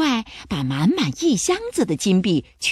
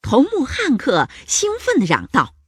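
excited shouting; 4 semitones higher, 6 dB louder than usual. A narrator's reading. Pirate captain to his crew at the treasure, excited shout. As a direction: crow loudly over the gold.

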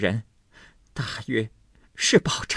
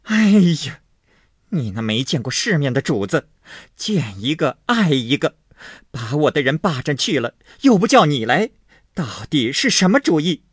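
shrill furious scolding, much higher and louder; 7 semitones higher, 6 dB louder than usual. A narrator's reading. Jealous wife scolding the maid, shrill and furious. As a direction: berate the maid in a jealous rage. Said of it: "又骂说".

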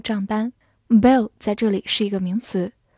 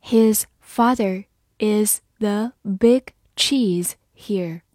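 His father is the big cheese here, very slow; slow read; much slower than usual. Shown as a demonstration. Teacher models the sentence slowly for class. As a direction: stretch out each word. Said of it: "好，慢慢来读".

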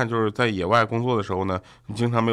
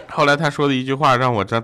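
ordinary delivery

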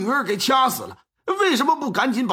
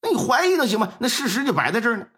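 agitated pleading; 5 semitones higher than usual. Acted. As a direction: push the magistrate hard, building to the last line. 冯志栋激动催促杀人. (激动地催促，越说越响)

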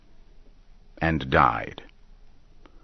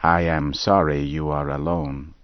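gently; 3 semitones lower than usual. Acted. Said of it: "she said gently".

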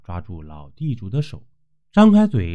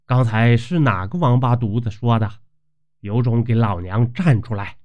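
mildly stern. Acted. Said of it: "掐着腰厉声说道".

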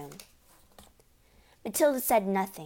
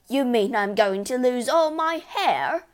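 high, loud, panicking; alarmed yell; 5 semitones higher, 6 dB louder than usual. A narrator's reading. Husband fearing baldness, yelling. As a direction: yell it in disbelief. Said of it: "the husband yelled".

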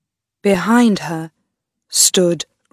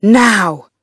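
eerie voice; 3 semitones higher, 6 dB louder than usual. A narrator's reading. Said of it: "said a voice in Gertrude's ear".

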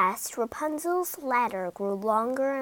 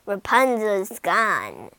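sinister; 2 semitones lower, 3 dB louder, slower than usual. Acted. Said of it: "said the witch with a sinister laugh".

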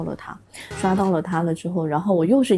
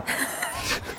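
breathy giggle; 9 dB quieter than usual. Real, not acted. Laughs at teasing.

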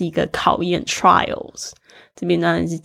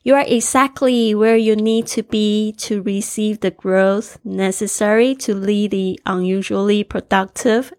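reading aloud. Shown as a demonstration. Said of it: "我再重新念过一次这个句子".

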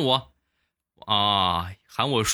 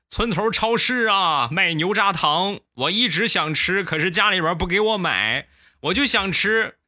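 put-on childish old man; 8 semitones higher than usual. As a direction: plead up high like a greedy kid. Toothless old uncle confesses.

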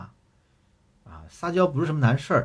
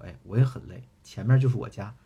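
impatient. Retold or imitated. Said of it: "男朋友有点不耐烦".

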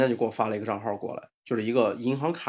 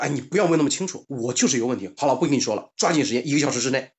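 firm, slightly raised orders; mock-irritated scammer; imitated brusque impatience; 2 semitones higher, 4 dB louder than usual. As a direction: brush off the questions and give orders. Retold scammer cuts off prying questions.

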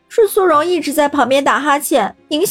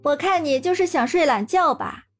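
mocking; 8 semitones higher, 3 dB quieter than usual. A narrator's reading. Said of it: "伺机嘲笑道".

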